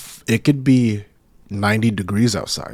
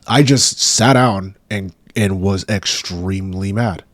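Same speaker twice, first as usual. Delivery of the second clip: retold anger; 4 dB louder, slower than usual. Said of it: "I was livid".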